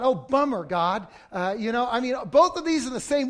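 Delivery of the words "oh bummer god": mock dismay. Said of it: "I thought".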